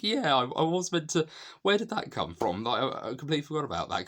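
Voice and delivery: high, flustered imitation of someone who forgot; caught-out inner thought. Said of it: "as if to think".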